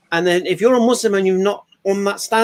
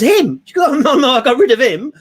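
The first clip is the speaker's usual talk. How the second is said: higher, louder dismissive woman's voice; wife mocking her old boyfriend, higher and louder; scornful retold woman; 7 semitones higher, 5 dB louder than usual. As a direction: brush him off with a scoff.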